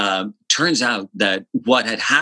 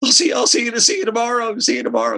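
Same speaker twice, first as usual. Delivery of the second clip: much higher, fading off, see you tomorrow; Elton's goodbye; 14 semitones higher, faster than usual. Retold or imitated. Elton leaving the studio for the night: high fading goodbye. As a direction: trail away like leaving the room. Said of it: "he was like".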